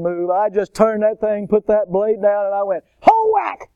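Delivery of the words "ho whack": very high whooping chop noise; mock battle cry. Man re-enacting his shovel swing at snake, high whooping cry. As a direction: yell it like a big shovel swing.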